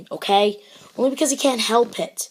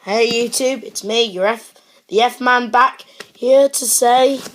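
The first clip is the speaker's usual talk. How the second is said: higher and louder, an upbeat YouTuber intro; loud excited host greeting; 4 semitones higher, 4 dB louder than usual. Acted. Greeting his YouTube viewers, a loud excited intro. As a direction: pump up the greeting, slowing on the last words.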